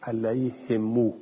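علیهم read alayhimu, kasra on the ha and a long u on the mim; slow alayhimu, stretching the final vowel; علیهم as ʿalayhimū. Shown as a demonstration. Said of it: "اینم یه قرائت بود".

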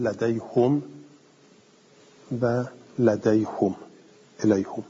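لدیهم and الیهم read ladayhum, ilayhum; الیهم ending -hum, never -him; damma on the ha. Shown as a demonstration. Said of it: "گفت که با ضمه بخونیم".

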